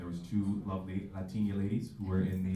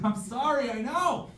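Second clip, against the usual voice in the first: high, frantic mock apology; high-pitched sorry; panicked apology; 3 dB louder, slower than usual. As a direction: squeal it out guiltily. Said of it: "I'm like".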